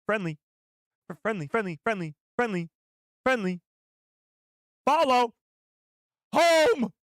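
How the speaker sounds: shrill, loud crab creature cries; trash crab impression. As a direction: build to a loud high squawk. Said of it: "Trash crab impression, please".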